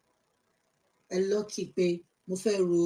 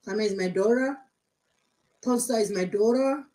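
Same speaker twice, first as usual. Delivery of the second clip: mock fake American accent; 3 semitones higher, 4 dB louder than usual. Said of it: "Your fake ass American accent".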